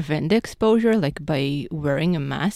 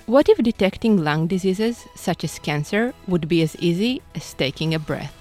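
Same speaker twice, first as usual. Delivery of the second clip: radio promo read; 2 semitones higher than usual. Acted.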